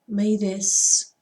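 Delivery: normal talking voice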